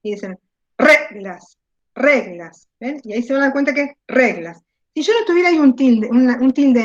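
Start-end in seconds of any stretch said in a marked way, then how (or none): 0.8-1.6 "reglas" with RE drawn out and punched; exaggerated stressed syllable. Shown as a demonstration. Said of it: "díganlo en voz alta y lo exageran". 1.9-2.7 "reglas" with a strong, falling RE; "reglas" said as a demo, stress on RE; exaggerated stressed syllable. Shown as a demonstration. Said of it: "lo exageran".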